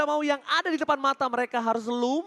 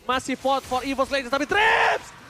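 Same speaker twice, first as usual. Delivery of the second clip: hype casting; 4 semitones higher, slower than usual. Real, not acted. Casting a teamfight, building hype.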